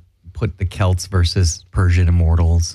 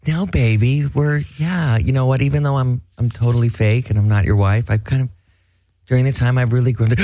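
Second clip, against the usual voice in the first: playing a movie role; 4 semitones higher than usual. Playing Arnold in Total Recall.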